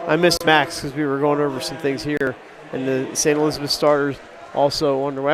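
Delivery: stuffy, nasal cold voice. Real, not acted. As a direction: sound like you're holding your nose. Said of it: "I'm sounding a little nasally".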